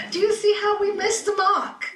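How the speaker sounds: real laughter breaking through; laughing. Real, not acted. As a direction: ask it while laughing hard.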